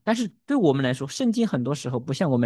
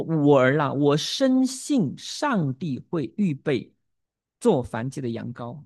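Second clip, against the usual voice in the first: faith declaration; slower than usual. Acted. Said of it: "这是他信心的宣告".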